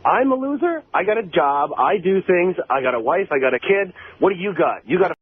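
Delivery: stung, high-pitched incredulous comeback; indignant retort. Real, not acted. Caller hitting back at Eric after being called a loser, indignant. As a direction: fire back at an insult, rattling off your credentials.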